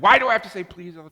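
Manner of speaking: mock complaining child; a kid protesting having to say please; whiny kid. Child complaining about saying please.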